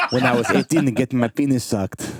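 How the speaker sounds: bad Israeli accent, done on the fly. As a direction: put on a rough Israeli accent. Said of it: "I was trying to do an Israeli accent on the fly".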